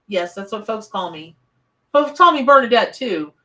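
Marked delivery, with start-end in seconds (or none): 1.9-3.3 excited. Real, not acted. Playful self-introduction to viewers.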